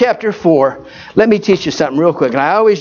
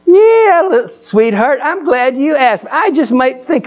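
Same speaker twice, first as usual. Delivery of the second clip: put-on sweet old lady; 6 semitones higher, slower than usual.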